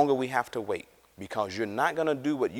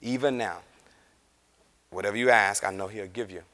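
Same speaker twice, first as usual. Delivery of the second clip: Bible class answer; 5 semitones lower, faster than usual. Retold or imitated. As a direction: recite it like a lesson you don't believe. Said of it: "She's giving Bible class answers".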